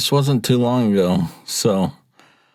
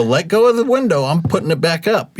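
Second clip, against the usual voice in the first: heated driver; 9 semitones higher than usual. Retold or imitated. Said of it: "I was getting a little heated".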